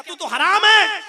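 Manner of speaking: high shout, hammering the final है; shouted scolding. Acted. Pigeon yelling at the crow in the trap, a high mock shout. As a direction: yell it at the crow as the final blow.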